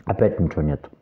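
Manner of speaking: chewing while talking; talking between bites of fruit; mouth full. Real, not acted. Seen 5: forkfuls of watermelon go into mouth; cheeks full, chewing throughout.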